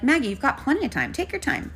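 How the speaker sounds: high-pitched, coaxing reassurance; retold soothing of a hurried old lady; reassuring. Helper reassuring an old lady with a walker, high and coaxing.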